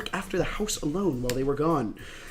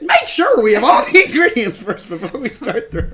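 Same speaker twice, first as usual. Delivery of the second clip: put-on high, loud little girl voice; Nanako voice; 7 semitones higher, 10 dB louder than usual. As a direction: commit to a bright child voice. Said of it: "Just pick and commit".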